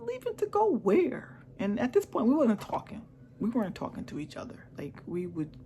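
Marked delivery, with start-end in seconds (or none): 0.0-1.4 high, slow disbelieving "where?"; baffled question. Retold or imitated. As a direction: ask it stunned, as if it makes no sense. Retold confused reply to husband.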